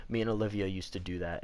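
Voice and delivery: understated, retold pang at a memory; mild retold pang. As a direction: recall it with a touch of regret. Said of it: "I don't get upset about it".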